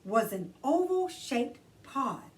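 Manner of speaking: gentle, expressive read-aloud; storytelling for children. A narrator's reading. Queen Fairy reading a picture book to kids, gentle storytelling. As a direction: read it like bedtime story time.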